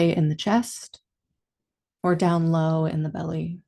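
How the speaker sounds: calm meditation guide, long pauses between phrases; guided meditation. Real, not acted. Teacher leading listeners into body and breath awareness, calm guided meditation. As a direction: ease them gently inward, leaving space after each instruction.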